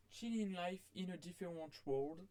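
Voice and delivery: English title in a French accent. Real, not acted. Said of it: "Excusez-moi pour mon accent anglais sûrement très mauvais".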